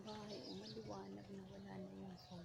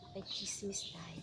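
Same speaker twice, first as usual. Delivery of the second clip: whispering. Real, not acted. Playful whisper, snooping.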